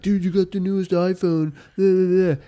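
put-on high, loud excited kid. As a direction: gush like a thrilled kid. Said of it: "all the kids are like".

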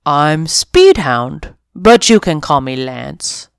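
lightly voiced friendly dog. Dog introduces himself.

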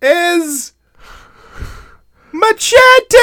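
booming high epic announcer. Pretend. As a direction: announce the title as epic as possible. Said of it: "I'm gonna do the most epic voice possible".

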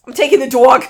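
put-on loud New Jersey accent on "dog"; playful, hammed-up Jersey accent. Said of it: "That's my Jersey accent".

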